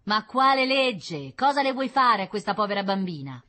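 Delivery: high, loud protest from an angry wife; indignant retort. A narrator's reading. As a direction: snap back in a quarrel. Wife quarrels with husband at door. (replica indignata ad alta voce)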